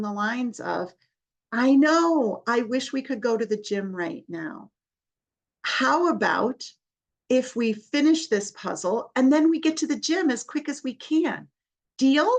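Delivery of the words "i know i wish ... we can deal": put-on bright, higher, encouraging voice to a child; upbeat coaxing. Shown as a demonstration. Therapist coaxing a child back to the puzzle, upbeat and higher. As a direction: sell the deal cheerfully.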